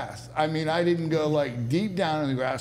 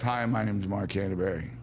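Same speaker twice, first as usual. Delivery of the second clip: put-on West Virginia accent; 7 semitones lower, 3 dB quieter than usual. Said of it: "That's another West Virginia accent".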